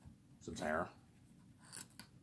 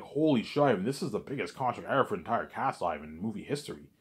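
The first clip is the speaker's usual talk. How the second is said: shocked. Retold or imitated. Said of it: "He'll be shocked".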